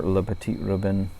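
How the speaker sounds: careful French stab at Le Petit Robin, slowed; trying for a French accent; attempted French accent. Shown as a demonstration. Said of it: "bad French accent".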